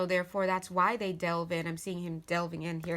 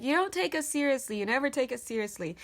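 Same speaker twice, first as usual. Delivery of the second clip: lightly voiced whining sixteen-year-old; immature teenage boy; 5 semitones higher, 3 dB louder than usual. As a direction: imitate a teen's complaint, starting higher. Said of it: "this immature kind of energy".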